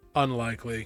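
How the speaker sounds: rough, gruff voice. Voicing a guard answering the captain: gruff voice. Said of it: "you hear kind of a gruff voice be like".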